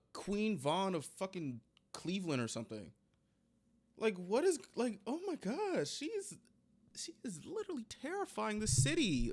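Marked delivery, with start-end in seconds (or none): 4.0-9.3 high, hushed disbelief fading to a whisper; breathy whisper of disbelief; awed whisper. Real, not acted. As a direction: murmur it in stunned awe. Reacting in mock awe, whisper.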